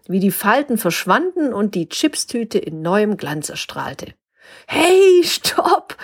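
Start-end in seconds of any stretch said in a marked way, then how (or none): 4.7-6.0 high, bright laughing stop; laughing girl. A narrator's reading. Girl laughing at the swelling chip bag, high call. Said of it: "lachte das Mädchen".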